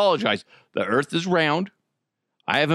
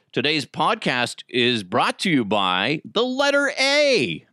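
Count voice; slower than usual. Retold or imitated. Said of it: "made me think of Sesame Street".

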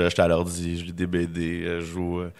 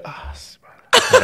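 mock smug; 6 dB louder, much slower than usual. Mock self-satisfied voice.

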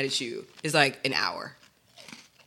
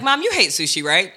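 pointed hint; 4 semitones higher, 5 dB louder than usual. Retold or imitated. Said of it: "I was like".

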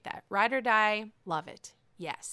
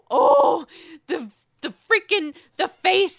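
laughing squeal; 8 semitones higher, 10 dB louder than usual. Real, not acted. Overcome laughing at Karen's face.

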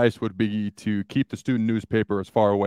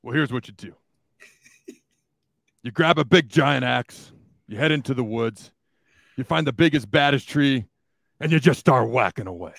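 Greg Schiano impression. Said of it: "that impression's on or not".

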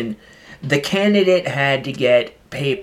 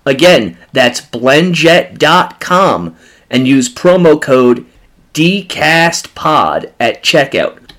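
loud, upbeat sponsor read; 7 dB louder than usual. Acted. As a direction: sell it like a radio spot. Host reads sponsor ad.

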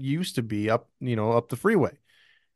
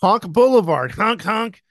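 silly clown; 6 semitones higher, 5 dB louder than usual. Pretend. Joking about honking goose territory.

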